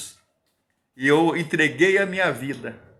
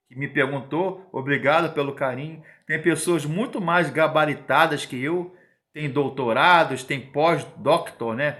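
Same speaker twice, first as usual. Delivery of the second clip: ordinary delivery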